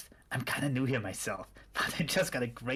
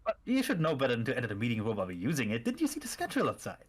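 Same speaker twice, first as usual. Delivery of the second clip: cultist voice; 4 semitones lower, faster than usual. Acted. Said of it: "the cultist voices?".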